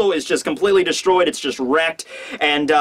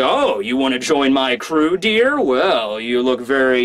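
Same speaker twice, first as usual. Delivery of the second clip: leering crew boss; 4 semitones lower, slower than usual. Acted. Plays crew boss sizing her up.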